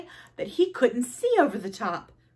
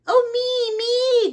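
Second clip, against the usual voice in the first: very high, loud little squeal; eager cry; 6 dB louder, slower than usual. Acted. Polly at story time, eager high cry. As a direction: beg to be picked like a small child. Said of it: "cried Polly Woggalina".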